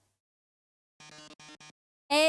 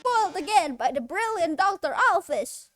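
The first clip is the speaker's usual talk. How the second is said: loud hammed-up dismay; foiled villain; 5 dB louder than usual. Host foiled by the scientist, hammed-up dismay. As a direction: shake a fist at the hero.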